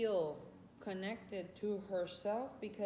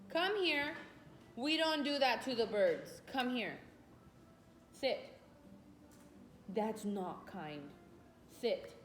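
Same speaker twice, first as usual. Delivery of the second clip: raised, high-pitched scolding of a pet; 4 semitones higher than usual. Real, not acted. Scolding dog for going at birds.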